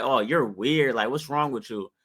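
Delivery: a hint of a put-out relative; offended cousin. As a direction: lightly play the cousin brushing you off. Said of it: "come back like".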